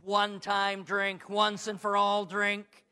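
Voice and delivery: slow, heavy stress on each word; slow emphasis. Real, not acted. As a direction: lean on every word. Preacher dwells on the words.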